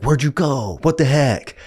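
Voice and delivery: a kid's mock outrage at waking alone; mock indignant kids. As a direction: play the cheated little brothers. Kids confronting Reed, retold.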